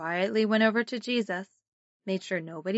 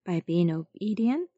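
sunday school teacher. Shown as a demonstration. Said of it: "pray together".

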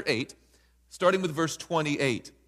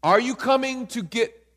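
mock panic; 6 semitones higher, 3 dB louder than usual. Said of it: "They see him coming, like".

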